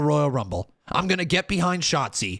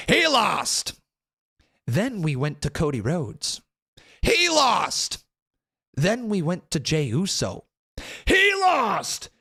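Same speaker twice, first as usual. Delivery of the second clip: climax into an outraged yell; fed-up fan boiling over; building exasperation; 7 semitones higher, slower than usual. Real, not acted. Listing favourites who lost.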